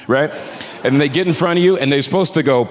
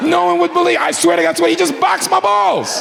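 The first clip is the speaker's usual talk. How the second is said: incredulous; 11 semitones higher than usual. Real, not acted. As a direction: tell it like you still can't believe it. Incredulous retelling.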